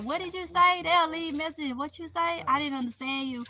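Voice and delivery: a hint of a baffled commenter; imitating puzzled viewers. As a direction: mimic people who can't follow you. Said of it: "they be like".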